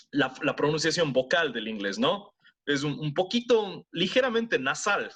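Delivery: Spanish with a slightly nasal American accent. Shown as a demonstration. Teacher still in American accent explaining. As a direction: keep the heavy gringo accent going. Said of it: "Así es como hablaría un gringo".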